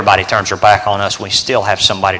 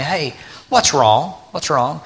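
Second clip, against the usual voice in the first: mock concerned friend; 4 semitones higher, 6 dB quieter, slower than usual. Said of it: "they'll ask me".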